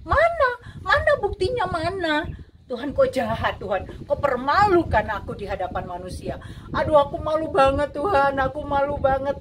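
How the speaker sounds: retold anguished shout at God, loud and high; crying out at God. Alone in the car, accusing God through tears, shouting. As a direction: cry out in hurt accusation, voice rising. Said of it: "saya benar-benar nangis".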